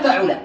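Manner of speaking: فعل said fa-'u-la, middle vowel u; damma on ain. Shown as a demonstration. Teacher listing verb patterns, فعل as fa'ula. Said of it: "له ثلاثة أوزان فقط".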